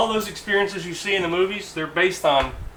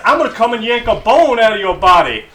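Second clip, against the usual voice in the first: drill sergeant threat; 5 semitones higher, 6 dB louder than usual. Retold or imitated. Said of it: "He said".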